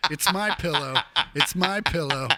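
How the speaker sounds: mock pitch dissolving into laughter; mock My Pillow line, laughing; laughing through it. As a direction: repeat the slogan while cracking up. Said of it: "It feels like it".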